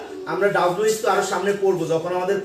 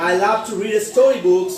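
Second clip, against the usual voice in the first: slow "I love to read storybooks", dropping on "storybooks"; 4 dB louder, much slower than usual. Shown as a demonstration. Teacher drilling a statement, slow fall on "storybooks". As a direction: glide downward through "storybooks". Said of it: "ভয়েসটা উপর থেকে নিচের দিকে যাবে".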